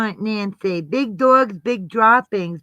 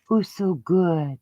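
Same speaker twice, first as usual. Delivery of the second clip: squeaky praising a dog; slower than usual. Real, not acted. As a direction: coo slowly at the dog.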